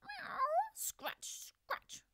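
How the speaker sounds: high meow, then a scratching hiss; a frustrated cat at the sill. A narrator's reading. Simpkin scuffling at the window, high meow then scratch. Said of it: "scuffled Simpkin".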